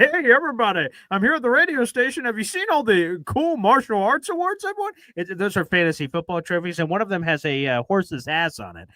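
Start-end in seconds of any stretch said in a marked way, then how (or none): 0.0-4.9 mock boastful radio host voice; mock braggart. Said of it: "That would be a very weird thing to say".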